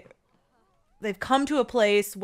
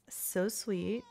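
whisper; 8 dB quieter than usual. Real, not acted. Cooing over cute sim dad.

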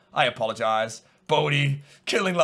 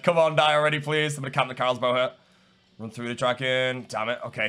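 ordinary delivery

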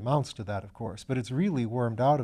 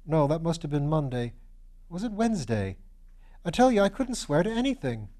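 put-on higher, bright-eyed young medical student voice; eager young student; 4 semitones higher, 3 dB louder than usual. Young Piggott protesting to Lord Peter, higher eager student voice. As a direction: play the eager, slightly foolish young student.

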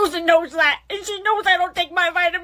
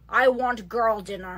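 put-on old lady voice; 6 semitones lower, 6 dB quieter than usual. Old lady low croak.

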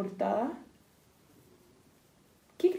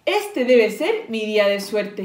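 loud, emphatic storybook fox; punched-out delight, pitch kept level; exclaiming; 8 dB louder than usual. A narrator's reading. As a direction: exclaim it firmly at your good luck. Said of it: "exclamó el zorro".

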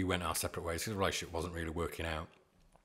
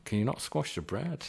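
put-on weak New York accent on "squash the bread"; mock New Yorker complaining; 5 semitones higher than usual. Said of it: "Is that your best New York accent?".

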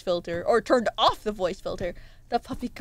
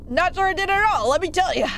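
put-on old-timer voice lifted higher for emphasis; old man voice; 5 semitones higher, 3 dB louder, faster than usual. Old fish repeating his doubt to the player, higher old man voice. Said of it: "That's an old man voice".

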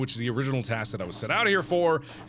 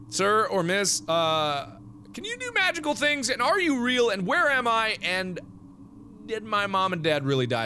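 put-on higher, eager little girl asking questions; young girl voice; 10 semitones higher than usual. Fran questioning the fairies, in a higher eager child voice. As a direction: play a curious ten-year-old.

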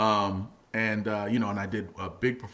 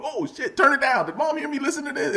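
mock panic; 4 dB louder than usual. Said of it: "He made it so you were going".

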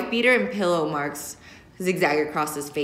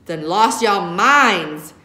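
scolding; 6 dB louder, much slower than usual. Acted. Father scolding in truck.

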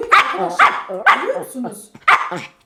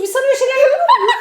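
laughing, higher and fast; 10 semitones higher, 3 dB louder, much faster than usual. Real, not acted. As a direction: blurt it out through laughter. Laughing at daughter feeding husband.

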